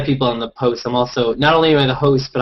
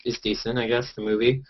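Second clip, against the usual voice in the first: ordinary talk, nothing marked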